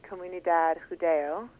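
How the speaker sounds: Spanish name in an American accent; Spanish read with an American English accent. Real, not acted. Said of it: "excuse my Spanish pronunciation there".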